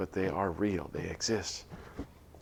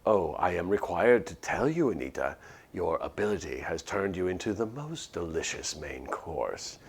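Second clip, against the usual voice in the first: 1 sinister gentleman monster; 2 semitones lower than usual. Acted. Well-spoken monster warns Anita.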